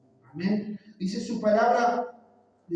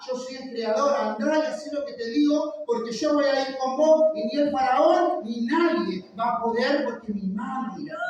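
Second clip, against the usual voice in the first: with authority; 4 semitones higher than usual. Acted. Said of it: "Como poniendo autoridad".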